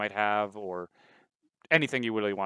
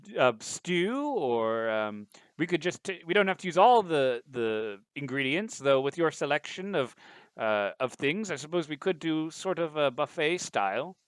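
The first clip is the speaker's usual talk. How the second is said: computer butler voice; 4 semitones higher, 3 dB louder than usual. Acted. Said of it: "It's like".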